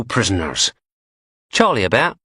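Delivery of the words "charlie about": posh English woman. A narrator's reading. Blondie asks for Charlie.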